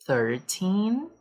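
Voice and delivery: put-on thirTEEN, stress on TEEN; stress on the end. Shown as a demonstration. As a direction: hit the last syllable of Thirteen. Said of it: "O foco aqui é na última sílaba". (ênfase na última sílaba)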